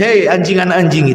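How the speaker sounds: mild, even-toned address; gentle, soft-spoken. Shown as a demonstration. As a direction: say it gently, without any bite. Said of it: "dengan kalimat yang lembut, lirih".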